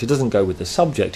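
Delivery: "doesn't" leaned on, falling at the end; teacher contrasting "doesn't" with "goes"; stress on doesn't. Shown as a demonstration. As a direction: hit "doesn't", then let the line fall. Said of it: "it goes with the object".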